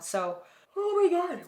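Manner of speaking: very slow, high words spoken through a yawn. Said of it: "why do I keep yawning?".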